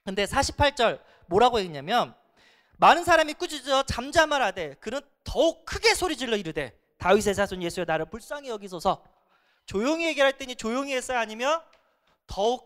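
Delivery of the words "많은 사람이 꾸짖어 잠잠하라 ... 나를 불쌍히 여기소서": scripture reading. Acted. Reads scripture.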